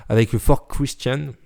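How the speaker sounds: "Christian" said the English way; mock English accent on "Christian"; a touch of English accent on the name. Shown as a demonstration. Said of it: "T'as vu le, l'accent? Le super accent".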